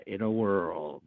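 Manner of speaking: slow, dramatic "In a World"; dramatic trailer voice. Pretend. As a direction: drag it out like a trailer. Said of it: "Can you do a dramatic In the World".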